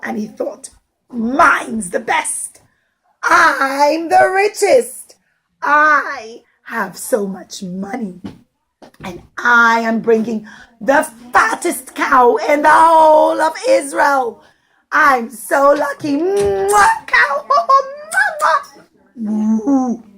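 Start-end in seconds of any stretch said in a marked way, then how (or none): 1.1-8.2 smug boasting. Acted. Rich man boasting in story. 9.0-16.2 proud bragging. Acted. Rich man boasting in story. 16.2-18.8 high smacking kisses at the cow; kissing noises. Acted. Storyteller plays the rich man kissing his cow, loud and high.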